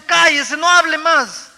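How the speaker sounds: a high, loud angry retort to be silent; near shout. Retold or imitated. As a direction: shout him down in frustration. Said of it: "casi le grité". (casi un grito, agudo y enojado)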